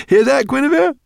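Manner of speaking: very high, loud excited shout; overjoyed call. A narrator's reading. Professor to his daughter with happy news, overjoyed high call. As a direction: call out, bursting with delight.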